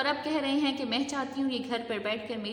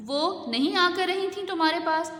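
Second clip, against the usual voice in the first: roaring like a lion; 6 semitones higher than usual. A narrator's reading. Husband roars at his wife about her sister staying. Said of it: "وہ شیر کی طرح دہاڑے".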